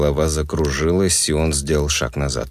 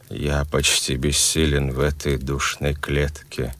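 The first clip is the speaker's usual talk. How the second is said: commanding and cold. Acted. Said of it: "властными и холодными".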